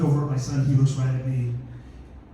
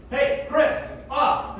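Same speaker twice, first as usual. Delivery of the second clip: raised-pitch coach's call; sideline call; 6 semitones higher, much slower than usual. Shown as a demonstration. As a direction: call a player off the field, lightly projected. Demonstrates sideline substitution call.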